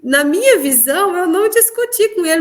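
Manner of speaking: ordinary talk, nothing marked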